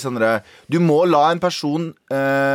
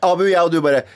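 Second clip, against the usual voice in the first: ordinary talk, nothing marked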